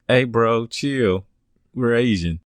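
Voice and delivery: lightly put-on California surfer accent. Driver brushing off the officer's Spanish, in a California accent. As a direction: play a laid-back California bro. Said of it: "The driver says in a California accent".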